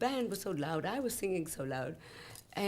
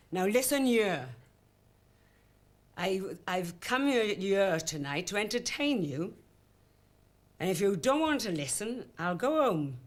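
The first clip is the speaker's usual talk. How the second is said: put-on broad Welsh accent; 4 dB louder than usual. Singer tells the jeering audience off, in firm broad Welsh. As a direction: lay down the law in broad Welsh. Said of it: "in my broad Welsh accent".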